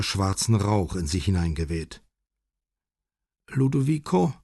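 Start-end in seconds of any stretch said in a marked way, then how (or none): 3.5-4.3 put-on high, trembling frail old lady; shaky old woman. A narrator's reading. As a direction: call his name like a confused old woman. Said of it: "sagte sie mit zittriger Stimme".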